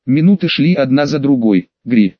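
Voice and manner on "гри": shrill screech "Гри"; monkey screech. Acted. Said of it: "завизжала чёрная обезьяна".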